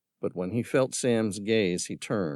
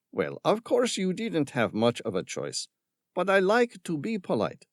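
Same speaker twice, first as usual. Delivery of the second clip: higher, sneering mock politeness; sarcastic; 11 semitones higher than usual. A narrator's reading. Villain mocking the boys with fake courtesy. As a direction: let the sarcasm drip. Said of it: "dripped with sarcasm and vitriol".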